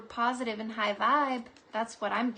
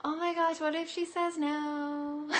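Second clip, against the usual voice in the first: slow, slightly high mock worry; mock nervous; 4 semitones higher than usual. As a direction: play the shy guy fretting. Voicing shy viewer's worry.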